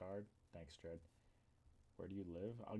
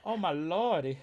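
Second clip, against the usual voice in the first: mock gasp; 8 semitones higher, 11 dB louder than usual. Mock reaction to growl.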